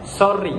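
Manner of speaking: "sorry" with a stressed R; Filipino pronunciation. Shown as a demonstration. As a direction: lean on the R in "sorry". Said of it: "In Filipino language".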